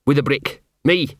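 a hint of a gruff, put-upon street dog; grumbling self-pity, lightly voiced; lightly voiced scruffy dog. Gaspode telling Carrot his sad life, lightly grumbling.

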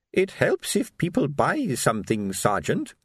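put-on slow, pointed old lady voice; hint pointedly, taking your time; meaningful hint. Old shopkeeper nudging the sergeant to buy, meaningful. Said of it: "she said meaningfully".

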